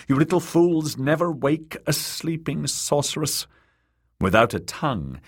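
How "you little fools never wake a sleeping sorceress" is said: urgent cry. Acted. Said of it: "the queen wanted to cry out".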